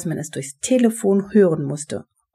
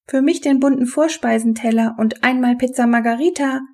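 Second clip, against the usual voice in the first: higher, projected announcement; trumpeted order; 6 semitones higher than usual. A narrator's reading. Benny orders pizza towards the telephone, trumpeting it. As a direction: pipe up towards the phone, pitched up. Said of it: "trompetete Benny in Richtung Telefon".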